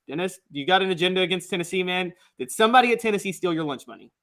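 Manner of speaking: put-on quick jokey Southern sports-radio caller accent. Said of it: "that's not a Tennessee accent".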